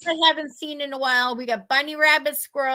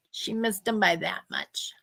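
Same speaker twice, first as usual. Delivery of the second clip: hushed aside whisper; secretive whispered aside; 4 semitones lower, 6 dB quieter than usual. Real, not acted. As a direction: drop to a breathy whisper for the punchline. Aside about near miss with moose.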